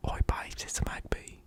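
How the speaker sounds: whispered mock British accent. Shown as a demonstration. Doing a Magby bit for viewers in a whispered British accent. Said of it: "in a British accent".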